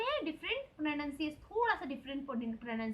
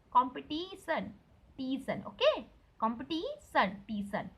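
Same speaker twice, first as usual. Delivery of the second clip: कॉम्पिटिशन and टीशन, ti held long; stretched ti; 2 semitones lower than usual. Shown as a demonstration. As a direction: drill the drawn-out ti. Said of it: "टी को ऐसा खींचना है".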